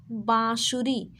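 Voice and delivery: बाँसुरी slowly, with a nasal बाँ; nasalised first vowel. Shown as a demonstration. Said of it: "नाक से बोलेंगे". (बाँसुरी का बाँ धीरे, नाक से)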